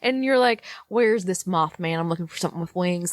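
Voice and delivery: worked-up ranting at people; mock furious. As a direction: rant like you're fed up with everyone. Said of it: "got so viscerally angry right now".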